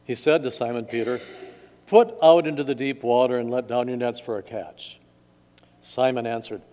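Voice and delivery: measured gospel reading; scripture reading. A narrator's reading. Pastor reads the gospel to church, measured reading. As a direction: read scripture to a congregation.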